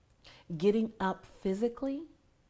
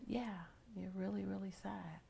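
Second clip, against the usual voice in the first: softer, quietly confirming reply; gently voiced doctor; 9 dB quieter than usual. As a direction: answer softly, as a doctor breaking it gently. Voicing doctor's gentle answer to her.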